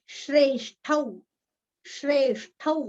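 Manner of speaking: श्रेष्ठौ with a full औ at the end; श्रेष्ठौ, not श्रेष्ठ; clear au ending. Shown as a demonstration. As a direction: finish श्रेष्ठौ on a long au. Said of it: "श्रेष्ठ बोला है या श्रेष्ठौ".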